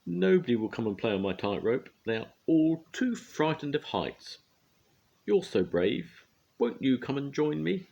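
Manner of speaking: high, coaxing plea from up high; a lonely girl begging a friend; pleading girl. A narrator's reading. Girl on tightrope coaxing Mister Brave, high-pitched plea.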